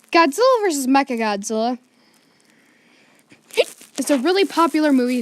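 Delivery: hiccuping between words; with hiccups. Real, not acted. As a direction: talk through hiccups. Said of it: "I got the hiccups now".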